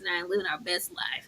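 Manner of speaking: whispered aside. Real, not acted. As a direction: breathe it as a secret.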